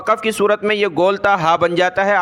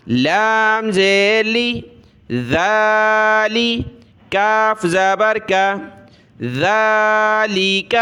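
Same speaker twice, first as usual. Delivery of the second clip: measured sing-song letter-by-letter recitation; slow classroom recitation drill; Qaida spelling drill; 2 semitones higher, much slower than usual. Shown as a demonstration. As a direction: chant each syllable, then blend and stretch the word.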